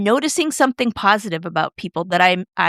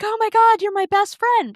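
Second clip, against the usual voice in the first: mock gushing; 12 semitones higher than usual. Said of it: "turn around and be like".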